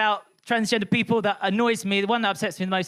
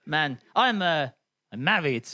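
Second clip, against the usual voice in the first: James Ross impression; 4 semitones lower than usual. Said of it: "this is my James Ross impression".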